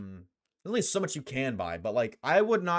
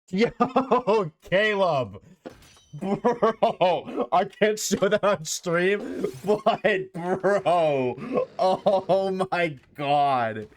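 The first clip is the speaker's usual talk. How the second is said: loud, drawn-out disbelief with some laughter; shocked; 3 semitones higher, 3 dB louder, much slower than usual. Real, not acted. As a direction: stretch the words out, loud and scandalized. Shocked reaction to image on stream.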